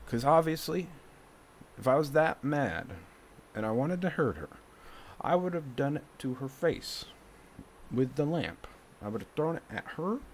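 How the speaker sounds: real worked-up defensiveness; heated self-justification. Real, not acted. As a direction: argue your case, voice climbing. Heatedly defending self over the fight.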